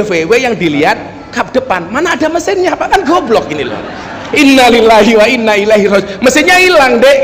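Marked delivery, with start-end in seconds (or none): 4.3-7.2 louder mock wail. Madurese friend shouts over the missing engine, louder hammed-up wail. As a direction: retell the cry bigger, for the laugh. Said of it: "Langsung dia teriak".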